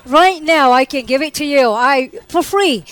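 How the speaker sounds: wisecracking mock offer; smart aleck. Patient offering up her appendix for free, smart aleck. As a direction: toss out a cheeky offer. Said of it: "being a smart aleck".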